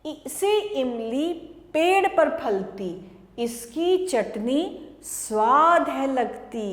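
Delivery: sing-song classroom chant; rhyme recitation. Acted. Teacher chanting a rhyme to small children, sing-song. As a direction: recite it in a bouncing rhythm for kids.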